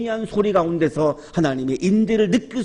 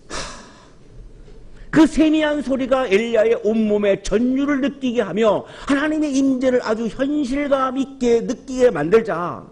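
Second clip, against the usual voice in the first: ordinary talk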